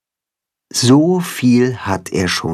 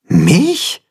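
high, baffled one-word question; perplexed; 7 semitones higher, 4 dB louder than usual. Acted. Timme hears he was laid with the cat, perplexed. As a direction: sound caught off guard. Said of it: "fragt Timme perplex".

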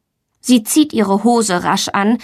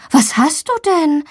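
higher, concerned mother's question; worried; 7 semitones higher than usual. A narrator's reading. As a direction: ask with motherly worry, voice raised in pitch. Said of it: "fragt ihre Mama besorgt".

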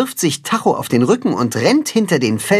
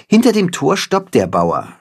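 ordinary delivery

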